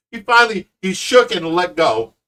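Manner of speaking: ordinary delivery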